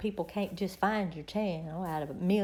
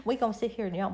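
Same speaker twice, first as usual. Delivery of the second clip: laughing; much faster than usual. Real, not acted. Laughing about yawning together.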